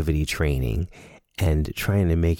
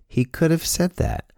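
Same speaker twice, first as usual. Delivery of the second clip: ordinary talk, nothing marked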